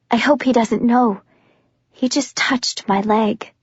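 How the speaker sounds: ordinary delivery, nothing marked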